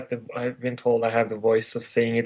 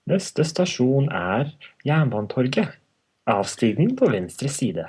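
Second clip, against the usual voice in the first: slow Norwegian transit announcement; station announcer; slower than usual. Shown as a demonstration. Announcing a Norwegian station and exit side, formal announcer. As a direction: announce the stop, measured and formal. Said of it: "Or as I say it".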